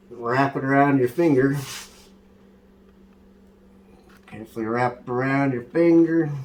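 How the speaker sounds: put-on hillbilly accent; redneck accent. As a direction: play the easygoing redneck cook, twang and all.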